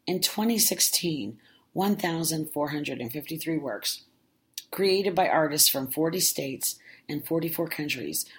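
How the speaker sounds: steady, measured read-aloud narration; official narrator voice. Shown as a demonstration. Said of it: "in my official narrator voice".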